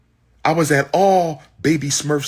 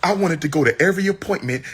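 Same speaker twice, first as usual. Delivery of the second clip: higher and fast, heated; angry; 5 semitones higher, faster than usual. Real, not acted. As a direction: rush it out in anger. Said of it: "Look how angry he is".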